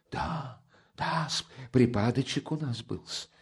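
high, fussy friendly clucking; clucking sympathy. Acted. Porfiry clucks over Raskolnikov with friendly concern. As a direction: cluck over him like a hen. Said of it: "закудахтал с дружественным участием".

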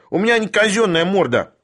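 high aggrieved whine; high-pitched outraged character voice; squealed. A narrator's reading. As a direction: protest in an offended squeal. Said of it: "взвизгнул Шариков".

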